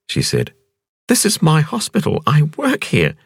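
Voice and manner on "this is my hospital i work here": dazed wonder at meeting him; young woman Ping. A narrator's reading. Ping protests.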